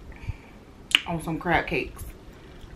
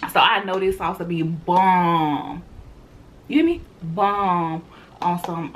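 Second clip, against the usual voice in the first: with hiccups. Real, not acted. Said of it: "I got hiccups".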